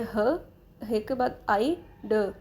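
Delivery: slow isolated "ह", then "आई", then "ड"; teacher breaking the word into "ह", "आई", "ड"; separate sounds. Shown as a demonstration. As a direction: sound out "ह", "आई", "ड" slowly, one by one. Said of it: "आप इसको pronounce करें".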